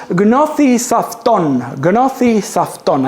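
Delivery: Gnothi Safton said slowly as "GNO-thee saf-TON"; Greek pronunciation. Shown as a demonstration. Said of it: "it is pronounced".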